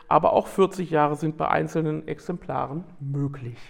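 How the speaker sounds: steady read-aloud narration; nature documentary. Acted. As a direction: read it like a wildlife film voiceover. Reads prepared text aloud.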